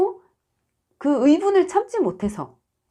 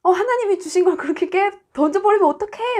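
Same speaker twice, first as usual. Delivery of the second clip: shocked; 7 semitones higher than usual. Retold or imitated. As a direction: gasp out in horrified disbelief. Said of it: "막 이렇게 시겁했는데".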